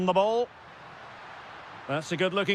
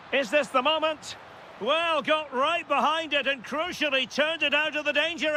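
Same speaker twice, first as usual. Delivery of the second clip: tense commentary; 6 semitones higher than usual. Real, not acted. Commentator follows a dangerous attack.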